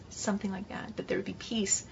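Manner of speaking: hushed thoughtful whisper. Real, not acted. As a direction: murmur it half to yourself. Preacher trails off musing on scripture.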